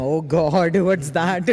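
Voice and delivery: loud, hammed-up horror; mock shock. Guest imagines people seeing her in shorts, mock shock. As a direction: exclaim in mock dismay, laughing through it.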